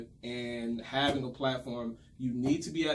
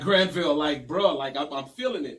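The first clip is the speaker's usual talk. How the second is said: retold protest; 2 semitones higher, 7 dB louder than usual. Retells arguing with the director.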